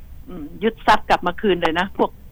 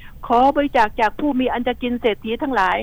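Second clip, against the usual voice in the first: model phrasing; 3 semitones higher than usual. Shown as a demonstration. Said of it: "ต้องพูดแบบนี้เนาะ".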